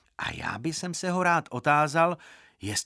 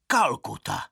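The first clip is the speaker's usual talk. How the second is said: moderately raised answering call; strong-voiced chorus reply; 4 dB louder than usual. A narrator's reading. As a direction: echo it back firmly. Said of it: "sborem odvětili silným hlasem".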